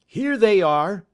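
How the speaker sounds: high, loud and slow; slow loud call. A narrator's reading. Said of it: "says he".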